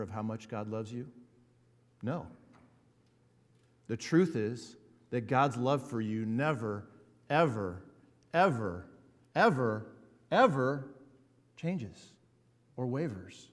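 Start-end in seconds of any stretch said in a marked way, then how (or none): 3.9-10.9 each ever louder than the last; building emphasis. Acted. Preacher assuring the congregation, ever pressed harder each time. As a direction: stack the evers, climbing.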